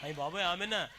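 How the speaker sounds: laughing exclamation; amused laugh. Real, not acted. Preacher laughing at the congregation's reaction. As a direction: chuckle in mock surprise.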